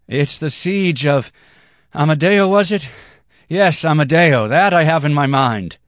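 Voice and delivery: put-on high, loud drunken outburst; excited cry. A narrator's reading. Blonde dancer calls out to Amadeo, excited cry. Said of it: "cried the blonde-haired dancer".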